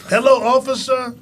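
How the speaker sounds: put-on high, bright child greeting; kids' voice. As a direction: chirp it like a little kid. Kids greeting officer at door.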